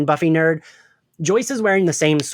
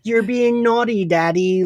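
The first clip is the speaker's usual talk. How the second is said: Drusilla impression; 8 semitones higher, slower than usual. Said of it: "And she's like".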